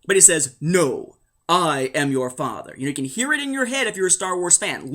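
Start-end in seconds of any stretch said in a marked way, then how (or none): 0.6-2.7 lightly voiced film villain, low; slow, weighty villain line, understated; Vader. Film villain revealing the truth to Luke, lightly imitated. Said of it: "The film has Vader talking to Luke".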